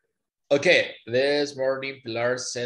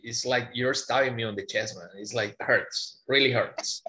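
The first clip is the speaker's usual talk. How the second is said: hammed-up wounded complaint; mock pain over a wrong accent; mock dramatic. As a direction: pretend it really hurts, playfully. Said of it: "I'm being a little bit dramatic".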